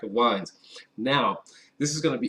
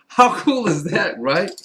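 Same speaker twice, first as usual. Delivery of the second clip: delighted laugh into the words, slower; 5 semitones higher, 6 dB louder than usual. Real, not acted. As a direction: laugh it out, tickled. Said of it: "laughs at the cork".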